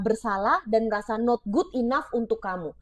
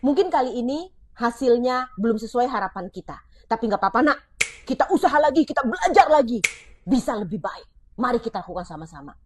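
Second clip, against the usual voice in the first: encouraging parent. Shown as a demonstration. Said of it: "Yuk ganti dengan kata ini".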